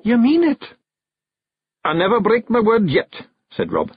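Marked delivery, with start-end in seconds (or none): 0.0-0.6 very high, louder questioning wife; tearful hope. A narrator's reading. Jeanie checks Rob's promise, tearful and hopeful. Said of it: "Tears shone in the moonlight". 1.8-3.1 higher, emphatic Scottish promise; Scots husband, assuring. A narrator's reading. Rob assures his wife of his word, emphatic.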